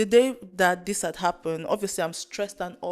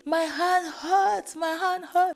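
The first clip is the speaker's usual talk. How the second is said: high, slow wail without volume; mock screaming; 10 semitones higher, slower than usual. Patient to scanner staff as the vein pops, muted mock scream. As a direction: imitate a pained scream as a drawn-out whine. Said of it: "I'm screaming".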